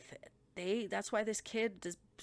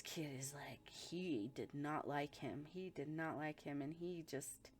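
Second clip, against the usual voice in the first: hushed; 2 semitones lower, 5 dB quieter than usual. Real, not acted. Stressing hatred.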